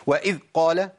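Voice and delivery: وإذ قال with the ذ cut short like a د; clipped stop on dhal. Shown as a demonstration. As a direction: snap the ذ shut in وإذ. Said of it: "ما قلتش أذ".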